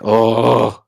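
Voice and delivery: re-enacted exasperated "oh"; frustrated groan. Clerk fed up with confused coworkers, retold frustration. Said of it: "I'm getting so frustrated".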